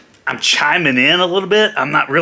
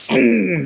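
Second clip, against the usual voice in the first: Macho Man hum; 6 semitones higher than usual. Shown as a demonstration.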